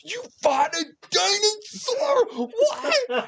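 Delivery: very high, laughing shriek; astonished kid. Acted. Boy stunned by the dinosaur tale, very high laughing cry. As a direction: shriek in disbelief.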